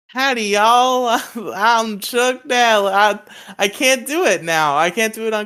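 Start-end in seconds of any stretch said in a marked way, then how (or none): 0.2-3.0 put-on bad Southern accent. Demonstrating the shitty voice for Chuck Dallas, bad Southern accent as Chuck Dallas. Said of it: "Do the shitty one for Chuck Dallas".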